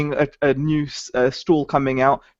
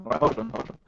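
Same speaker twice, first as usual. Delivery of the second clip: robotic glitchy mic sound; 6 semitones higher, 10 dB quieter than usual. Real, not acted. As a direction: voice garbled like a robot. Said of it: "You sound like a robot".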